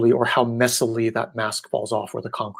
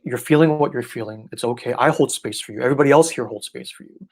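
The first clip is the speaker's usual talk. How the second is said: reassuring. Retold or imitated. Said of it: "I'm just like".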